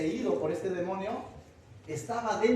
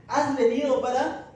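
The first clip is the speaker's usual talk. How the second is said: louder, higher accusing demon; 5 semitones higher, 7 dB louder than usual. Acted. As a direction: hurl the question like a threatened spirit. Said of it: "¿Qué más?".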